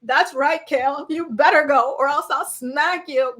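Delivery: scared shaky voice. Retold or imitated. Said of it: "in her scared, shaky voice".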